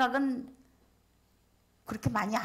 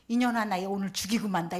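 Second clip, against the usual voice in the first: mock drunken yell, a bit louder; drunk threat; 5 dB louder than usual. Drunk homeless man threatening the volunteer, loud and angry. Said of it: "이러고 오는 거예요".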